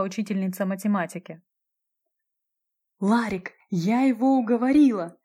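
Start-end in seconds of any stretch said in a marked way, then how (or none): 3.0-5.2 bright, lilting triumphant chirp; cheerful chirping. A narrator's reading. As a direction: chirp the good news happily. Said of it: "весело прощебетала Ольга".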